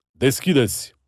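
"Deschideți!" shouted loud, falling hard at the end; gendarme shouting. Acted. Gendarme at the gate repeating the order, "Deschideți!" shouted falling. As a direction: slam down "Deschideți!" as a final order.

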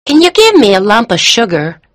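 put-on high little American boy voice; American-accented boy. A narrator's reading. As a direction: ask like a small American child. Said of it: "spoke with an American accent".

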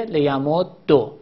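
لیمدو slow, with doubled dal and final o; assimilated, damma ending. Shown as a demonstration. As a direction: draw out لیمدو, closing on -ddo. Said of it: "ضمه هم اگه این ضمه باشه". (لیمدو کشیده، با دال مشدد و ضمه)

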